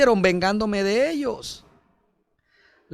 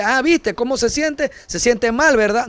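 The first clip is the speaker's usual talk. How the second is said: higher, taunting "serves you right" voice; mocking gloat; 5 semitones higher than usual. Pastor imitating a vengeful believer gloating, taunting. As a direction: gloat at the person who hurt you.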